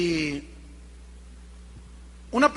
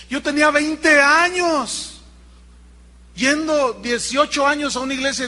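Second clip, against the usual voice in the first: higher, louder, slowed confession of the woman; emotional testimony; 4 semitones higher, 4 dB louder than usual. Retold or imitated. Woman confessing to her pastor, higher and louder, slowed. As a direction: press each phrase up high like an urgent confession.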